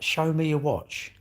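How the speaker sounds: slow, drawn-out repeated mock demand; mocking imitation. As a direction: nag it like the pestering stranger. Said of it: "but, like".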